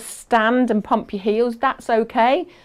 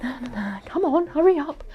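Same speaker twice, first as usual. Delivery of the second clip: impatient eager; 4 semitones higher, 3 dB quieter, faster than usual. Retold or imitated. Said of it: "you'll be like".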